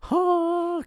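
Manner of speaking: high mock huh, imitating a friend; quick grunt like the film music cue; imitating a dramatic huh; imitated grunt. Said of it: "He would just say this in class and go".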